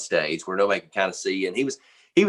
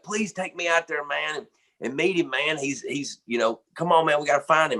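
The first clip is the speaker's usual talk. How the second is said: higher-pitched imitated pleading; begging; 6 semitones higher than usual. Buddy begging bandmate to take him to meet a famous guitarist, imitated pleading. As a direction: act out an insistent fan begging a favour. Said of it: "he was begging me".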